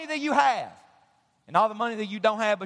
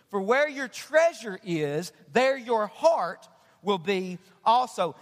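scripture reading; 3 semitones lower than usual. Acted. Pastor reading Jesus' words to the congregation, measured. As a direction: read the verses with weight. Reads scripture passage aloud.

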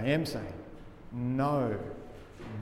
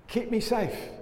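pleading; 8 semitones higher than usual. Shown as a demonstration. Preacher voicing the plea of the psalm, lifted high. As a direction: keep me safe lifted high, begging. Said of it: "And so there's the plea".

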